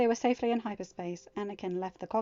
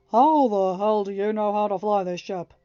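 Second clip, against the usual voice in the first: amazed; 9 dB louder than usual. Acted. Han amazed at Anakin.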